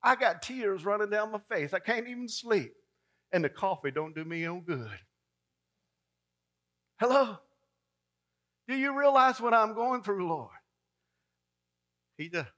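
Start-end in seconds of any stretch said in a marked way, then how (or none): 0.0-4.9 higher, pleading mock whine; complaining to God. Believer complaining to a sleeping Lord, whiny plea. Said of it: "Sometimes we ask the Lord". 7.0-10.5 high, calling Hello to the Lord. Retold or imitated. Believer calling up to the Lord, high appeal. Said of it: "Sometimes we ask the Lord".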